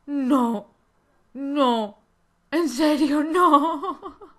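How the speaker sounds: loud, laughing "no, no"; laughing protest. Real, not acted.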